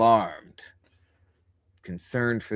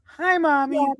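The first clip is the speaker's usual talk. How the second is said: put-on high, eerie demon child voice; demonic layered voice. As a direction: voice the creepy demon greeting. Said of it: "the demonic voice".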